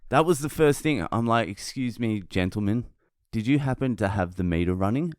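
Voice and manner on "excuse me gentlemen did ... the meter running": mock-courteous, softened opening; very polite. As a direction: retell it as an exaggeratedly polite request. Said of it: "I was very polite".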